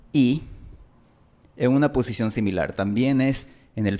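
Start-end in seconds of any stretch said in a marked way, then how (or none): 0.1-0.4 English vowel I said in isolation. Shown as a demonstration. Teacher modelling the English I vowel for Spanish learners, clear and deliberate. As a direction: say I as in English, long with a glide. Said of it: "una vocal que se representa con el símbolo".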